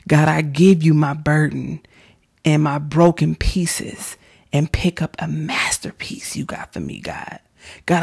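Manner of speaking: loud, pleading prayer lines with whispered turns; fervent prayer. Real, not acted. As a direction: pray out loud and let it swell then hush. Leads a spoken prayer.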